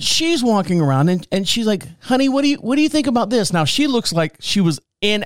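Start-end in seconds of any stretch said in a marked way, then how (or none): 2.0-3.5 imitated sweet wife, pitched up; mimicking a wife's polite coaxing; polite, nice wife. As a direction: ask very nicely, in a higher voice. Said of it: "being as polite and nice as possible".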